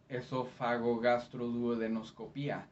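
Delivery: fluent Spanish pronunciation, pure vowels; Spanish accent. Shown as a demonstration. Interpreter giving the translation, in a Spanish accent. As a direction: say it quickly and smoothly in Spanish. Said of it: "with a Spanish accent".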